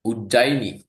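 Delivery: Ujjaini said the Pali way, with a j sound, oo-JAI-nee; Pali pronunciation. Shown as a demonstration. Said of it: "in Pali they say Ujjaini".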